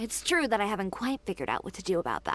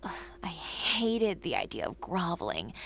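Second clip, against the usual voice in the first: scornful whisper; 3 semitones lower than usual. Acted. Scornful aside about groveling to clients.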